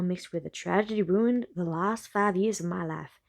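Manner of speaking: put-on light Southern accent reading a novel. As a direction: read it with a gentle Southern accent. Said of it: "which is Southern".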